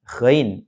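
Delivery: Ghain with gh rasped where a snore sits; snore-placed GHAIN. Shown as a demonstration. Teacher locating the letter for learners, Ghain with snore-like gh. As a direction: start Ghain with upper-throat friction. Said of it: "disitulah letak huruf ghain".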